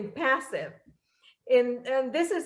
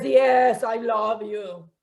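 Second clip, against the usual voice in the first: a quick, louder "Yes" then a slow, dropping "I love you"; distracted brush-off; 3 semitones lower, 3 dB louder, slower than usual. Husband on his phone brushing off his wife, distracted. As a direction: toss it off while eyes stay on the phone. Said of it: "Don't bother me".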